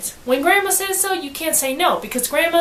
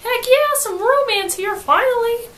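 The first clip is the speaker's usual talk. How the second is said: loud, high cheer; a burst of pure delight; thrilled; 11 semitones higher, 3 dB louder than usual. Retold or imitated. Janie thrilled that romance has finally come, loud and high. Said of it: "Janie's like".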